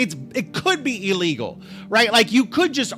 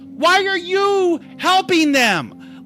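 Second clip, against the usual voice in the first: mock frustrated rant; 9 semitones higher, slower than usual. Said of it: "And I'm like".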